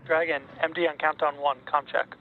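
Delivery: radio headset voice; over a pilot headset. Real, not acted. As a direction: talk through a comms headset. Controller calls over headset loop.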